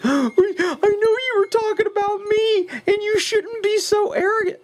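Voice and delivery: very high, whiny mock voice; crazy whining guy. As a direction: imitate a butthurt guy whining. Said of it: "that's my crazy whining guy voice".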